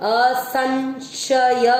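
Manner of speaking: असंशय very slowly with a nasal न sound; careful teacher demo. Shown as a demonstration. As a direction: stretch असंशय syllable by syllable. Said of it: "इसको आधा न पढ़ेंगे".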